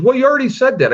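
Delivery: high-pitched, exasperated comeback; mock irritated stranger. Stranger arguing with a dad who can't help him, mock irritated. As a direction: imitate a testy oddball, voice jumping up. Stranger's retort in retold argument.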